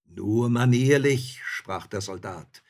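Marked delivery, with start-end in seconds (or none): 0.1-1.4 slow, loud rebuke; unruffled soldier. A narrator's reading. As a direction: draw it out boldly, pitched up. Soldier rebukes robbers coolly.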